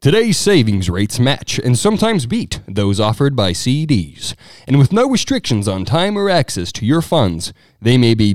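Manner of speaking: loud, golden, swooping radio announcer ad-read voice. Asked about the narrator voice, the speaker demos a golden radio voice. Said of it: "my golden radio voice".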